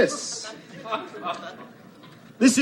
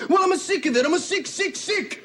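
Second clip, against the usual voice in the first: put-on Italian accent; 8 semitones higher than usual. Angry Italian-American rant.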